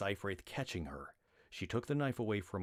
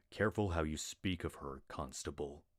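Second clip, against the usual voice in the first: lower, even warning; deep warning. Acted. Glawin warning the constable about Rat, low and steady. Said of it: "a deep tone of warning in his voice".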